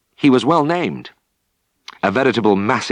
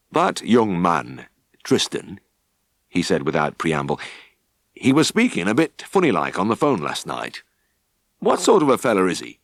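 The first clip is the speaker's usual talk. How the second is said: stern farmer. Acted. Stern farmer voiced, slow.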